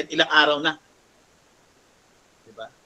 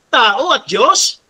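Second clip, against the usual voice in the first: incredulous question; 7 semitones higher, 7 dB louder, much slower than usual. Retold or imitated. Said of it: "sabi ng babae".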